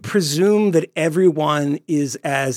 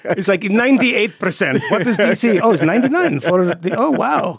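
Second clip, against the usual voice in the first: put-on Syrian accent; 4 semitones higher than usual. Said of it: "That was my Syrian accent".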